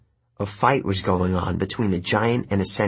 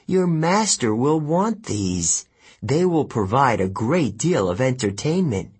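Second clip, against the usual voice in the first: menacing; 3 semitones higher than usual. Acted. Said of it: "Kelly said".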